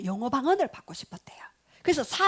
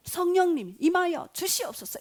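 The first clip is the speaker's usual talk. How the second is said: raised pitch, earnest invocation; fervent prayer; 6 semitones higher than usual. Retold or imitated. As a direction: re-enact a fervent plea to the Holy Spirit. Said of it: "그때 막 강력하게". (간절하게 기도하는 말투)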